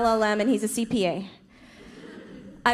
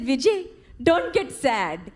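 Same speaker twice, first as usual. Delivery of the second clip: put-on mom's Indian accent; slower than usual. Mom quotes commercial.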